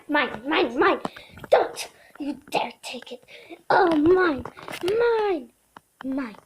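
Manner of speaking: a pushy dog, loud on mine; greedy dog voice. Acted. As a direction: whine and demand the food like a spoiled dog. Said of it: "saying stuff of what I feel like she thinks".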